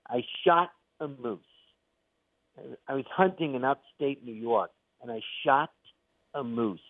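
light imitation of Woody Allen's nebbishy delivery, leaning on "shot"; lightly voiced Woody Allen bit, pausing before "a moose"; Woody Allen impression. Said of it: "So he'd go like".

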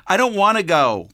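put-on high, loud tearful child's protest; a little girl crying, refusing to go. A narrator's reading. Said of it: "Carlene cried harder".

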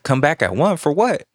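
high rising disbelief; confused by the counselor's answer; surprised. Retold or imitated. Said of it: "I'm like".

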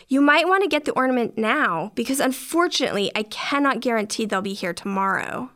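lightly voiced polite customer service; courteous, by-the-book shop clerk. Cashier explaining store policy to customer, politely. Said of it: "in my best customer service voice".

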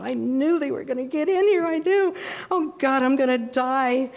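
high, panicked voice, slowing on the last words; terrified sure that death is near; panicked crying. Retold or imitated. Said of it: "I started crying and I thought".

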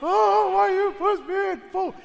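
high, loud fake-sob whine as a scared kid; mock crying. Pushed-in child whines at his mom, high mock sobbing. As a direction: wail it like a six-year-old pushed in the pool. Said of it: "and I'm crying".

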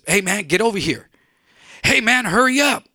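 high, loud and frantic; urgent shout. Retold or imitated. Freddie shouting at Mark during the robbery, frantic. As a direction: yell at him to hurry.

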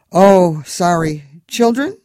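high, loud Eastern European cabbie voice; thick Moldovan accent, chatty and friendly. A narrator's reading. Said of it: "his fractured English".

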